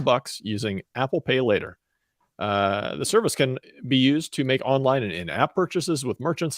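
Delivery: measured, lightly formal news delivery; news read. Acted. Co-host reading the week's tech news, lightly formal news read. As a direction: read out the story to co-hosts.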